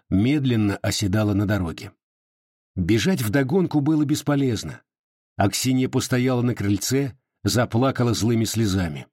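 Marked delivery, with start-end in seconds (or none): none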